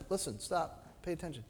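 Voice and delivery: very hushed urging; quiet, intimate call for attention; soft small voice. Acted. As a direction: drop nearly to a whisper to make them listen. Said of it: "in a soft, small voice".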